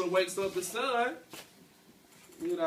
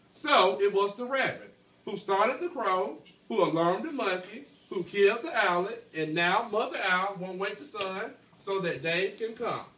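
clear, steady storytelling read; reading a story aloud to class. A narrator's reading. Teacher reading the tale to her class, storytelling voice.

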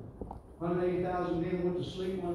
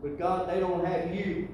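pleading prayer; 3 semitones higher than usual. Retold or imitated. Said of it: "And he said".

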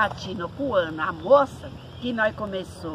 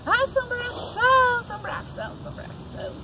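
yelling from afar; 13 semitones higher than usual. Retold or imitated. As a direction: shout it across the pasture, dying out to a whisper. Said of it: "Nós gritava lá de longe".

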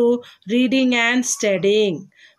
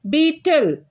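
slow dictation; 4 semitones higher than usual. Shown as a demonstration. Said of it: "pronounce after me".

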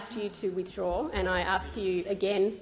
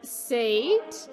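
raised stern command; 2 semitones higher, much slower than usual. Real, not acted. Chair calls senator to order.

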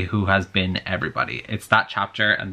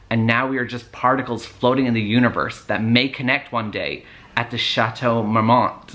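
put-on American accent. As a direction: play the drunk ex rambling in an American accent. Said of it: "I'm gonna be putting an American accent".

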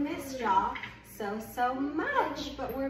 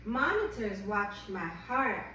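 gentle picture-book read-aloud; reading to a child. Acted. Reads picture book to baby.

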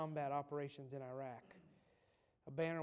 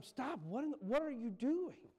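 much higher, louder shocked cry; alarmed yell; 9 semitones higher, 5 dB louder than usual. Retold or imitated. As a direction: shout to stop him in alarm. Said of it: "Yelled at him".

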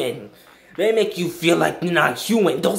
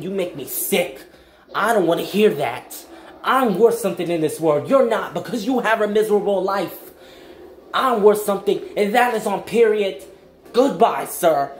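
firm, impassioned but not angry; emphatic self-affirming retort; passionate comeback; 4 semitones higher than usual. Shown as a demonstration. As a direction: stand up to a hateful person with conviction. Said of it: "but you say it in a passion".

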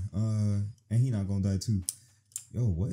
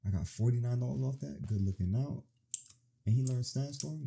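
ordinary talk, nothing marked

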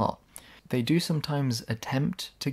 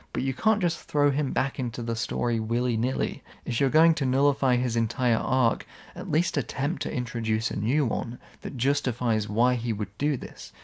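ordinary talk, nothing marked

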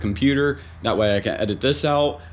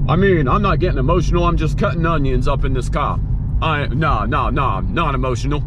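playful denial; 3 semitones higher, 3 dB louder than usual. Real, not acted. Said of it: "getting kind of emotional here".

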